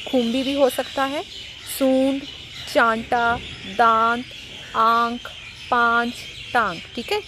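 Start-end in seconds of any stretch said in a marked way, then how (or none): 1.8-6.8 सूंड, चांटा, दांत, आंख, पांच, टांग each with a long nasal vowel; word by word, vowels through the nose; nasalised vowels. Shown as a demonstration. Teacher drills anunasik words, nasal vowel in each. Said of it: "इन शब्दों के ऊपर अनुनासिक".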